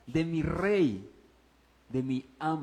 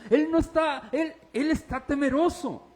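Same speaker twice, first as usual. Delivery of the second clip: forceful preaching; 7 semitones higher, 4 dB louder than usual. Real, not acted.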